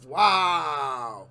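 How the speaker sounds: long drawn-out stunned "wow". Real, not acted. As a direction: let the wow slide slowly downward in amazement. Stunned reaction to played clip.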